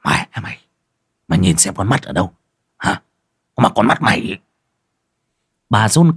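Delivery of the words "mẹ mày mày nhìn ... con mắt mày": angry scolding. Acted. Husband cursing his wife over the broken bowl, angry. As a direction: growl the insult at her, half-contained. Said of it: "hầm hầm chửi".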